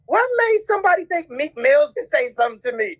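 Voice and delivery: high-pitched incredulous outburst tipping into laughter; real amusement breaking through, pitch shooting up; cracking up. Real, not acted. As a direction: squeal it, about to lose it laughing. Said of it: "this is the funniest thing".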